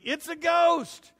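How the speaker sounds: high, drawn-out cartoon tow-truck yelp; a high, slow hillbilly cartoon cry; Mater from Cars. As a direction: do a goofy cartoon truck panicking. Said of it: "I think of Mater from Cars".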